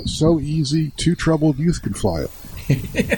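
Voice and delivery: slow, grinning sales pitch; ad slogan voice. Pretend. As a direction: read it like a cheesy ad tagline. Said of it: "they got a great advertisement line going".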